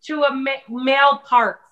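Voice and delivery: high, puzzled imitation of mother; mom voice. Mom on the couch questioning the menu, high and puzzled. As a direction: pitch up as the suspicious mom.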